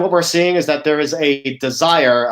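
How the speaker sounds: desire leaned on, falling tune; stress on desire. Real, not acted. Presenter to a fintech audience, stressing desire. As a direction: push the word desire home. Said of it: "I wanna emphasize the word desire".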